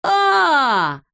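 high sudden "А" of realisation; an exclamation as it clicks; dawning realisation. Acted. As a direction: Neznayka realising it is a story machine, high sudden "ah". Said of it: "догадался Незнайка".

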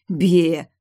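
loud bleh with tongue out; disgusted bleh. A narrator's reading. Heroine shows her disgust at the blood, loud bleh. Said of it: "высунула язык".

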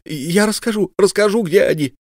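высоко, надрывно умоляя; выкрикнуть признание; отчаянный крик. Acted. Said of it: "закричала вдруг его подруга". (подруга сдаётся следователю, высоко и громко)

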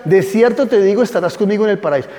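"estarás conmigo" run through fast; quick quoting. Shown as a demonstration. Teacher contrasts two readings of the verse, quick. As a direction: read the promise briskly. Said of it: "una cosa es que yo le diga".

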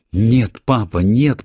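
loud, high cry of horror; anguished scream. A narrator's reading. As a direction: scream it as he falls. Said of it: "прокричала она".

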